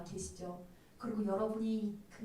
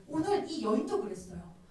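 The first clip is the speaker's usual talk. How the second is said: ordinary talk, nothing marked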